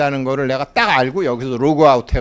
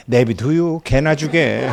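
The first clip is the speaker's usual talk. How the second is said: Chungcheong dialect grandma; 2 semitones higher, 6 dB louder, slower than usual. Retold or imitated. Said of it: "충청도 선배가 있는데".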